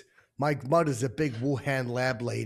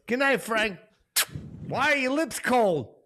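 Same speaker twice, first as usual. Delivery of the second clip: sleepy wife voice; 10 semitones higher, 3 dB louder than usual. Retold or imitated. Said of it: "Just a little kiss".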